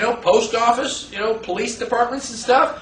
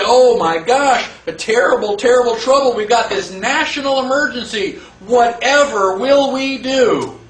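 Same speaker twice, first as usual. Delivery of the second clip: mock alarm. The public fretting over the emergency, mock dramatic alarm. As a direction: ham up a fake national emergency.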